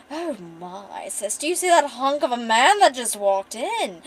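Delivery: a touch of a theatrical flirt; flirty gay bard. Acted. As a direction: gush over the hunk to your sister. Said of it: "here we get to meet Jasper".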